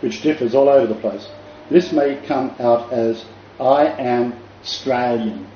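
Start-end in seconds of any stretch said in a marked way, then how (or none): 3.6-5.5 slowly, "Australian" with its first syllable dropped, as "Strayn"; clipped-word Australian dialect. Shown as a demonstration. Showing overseas listeners a dialect, "Australian" contracted to "Stralian". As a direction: say "Australian" starting straight on STR. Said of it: "depending on the Australian dialect".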